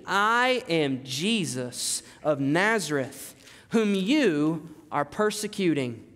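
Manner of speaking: slow, solemn, grave divine answer; voice of Jesus. Acted. Jesus answers Paul from heaven, slow and solemn. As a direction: let the Lord speak, slow and heavy. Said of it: "And he said to me".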